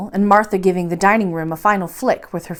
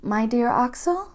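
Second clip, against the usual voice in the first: sweet voice; 2 semitones higher, 7 dB quieter than usual. A narrator's reading. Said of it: "the sweet voice which uttered these words".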